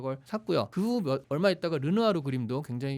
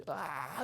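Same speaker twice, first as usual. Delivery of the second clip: mock scream; 9 dB quieter than usual. Lecturer mimics the screaming painting for listeners, restrained mock scream. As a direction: imitate a painted scream, long and held back. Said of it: "그 비명 지르는 그림".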